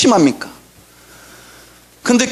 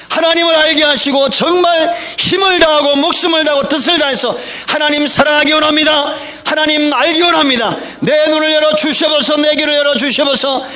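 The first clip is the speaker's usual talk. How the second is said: pleading prayer, pitch climbing higher as it builds; fervent prayer; 3 semitones higher than usual. Shown as a demonstration. Pastor shows the congregation the prayer he wants, fervent. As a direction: cry out to God like you really mean it. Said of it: "그렇게 기도하실래요?".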